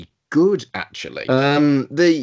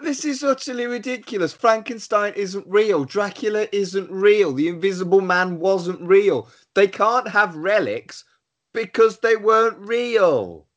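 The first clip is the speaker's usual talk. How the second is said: higher, exasperated protest; mock indignant sceptic; 5 semitones higher than usual. Co-host scoffing at the film's plot, mock indignation. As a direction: scoff at the whole idea.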